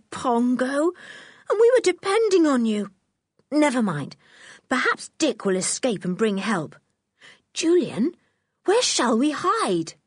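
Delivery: put-on a girl let down by the chimp; George, young girl. A narrator's reading.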